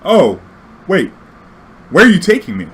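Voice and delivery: put-on high, loud frightened old lady; a suspicious passenger in a panic; freaked-out passenger. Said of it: "she just freaked out".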